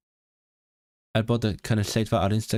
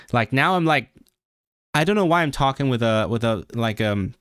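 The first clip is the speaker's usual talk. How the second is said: lightly put-on American voice, more nasal; attempted American accent. Shown as a demonstration. Streamer attempting an American accent on request, slightly nasal. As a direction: try an American accent through the nose. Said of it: "A more nasal voice".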